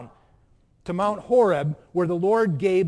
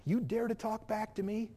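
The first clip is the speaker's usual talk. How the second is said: God rebuking; 8 dB quieter than usual. Acted. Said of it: "things God could say".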